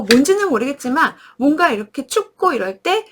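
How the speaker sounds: ordinary talk, nothing marked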